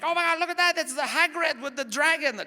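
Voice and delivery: put-on high, thrilled kid squeal; excited little girl. Comedian imitating the girl on the ride, high and thrilled. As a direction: gasp at it like a delighted child. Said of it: "the girl is like".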